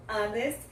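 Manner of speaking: HONEST begun on the vowel, 'on-est'; silent H. Shown as a demonstration. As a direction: drop the H of HONEST. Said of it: "esse H também é mudo".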